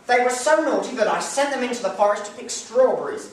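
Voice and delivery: high, loud sharp answer; mother confessing. Acted. Mother telling her husband she sent the children away, irritable. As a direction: brush it off irritably.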